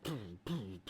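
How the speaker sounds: low mouth-made booming noise; short spoken sound effect, pitched low; imitated booms. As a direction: imitate dull thuds with the voice. Imitating the noise that wakes Tyler.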